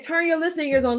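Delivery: laughing through a retold order. Real, not acted. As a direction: tell it while cracking up. Laughing while retelling the teacher's order.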